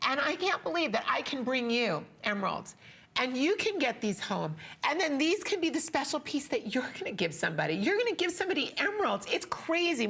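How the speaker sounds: fighting back real tears, pitch climbing; choked-up crying. Real, not acted. Host moved to tears selling heirloom emeralds, tearful and high. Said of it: "the way I'm crying here right now".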